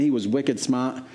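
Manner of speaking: put-on light Boston accent. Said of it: "if I put on a Boston accent".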